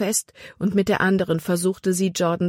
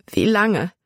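higher, despairing question; desperate; 4 semitones higher than usual. A narrator's reading. Libby clings to the swaying tree, desperate. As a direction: ask yourself in mild desperation. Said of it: "fragte sich Libby verzweifelt".

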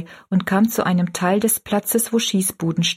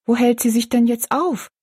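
smiling; 4 semitones higher than usual. Acted. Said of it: "trotz ihrer Enttäuschung lächelnd".

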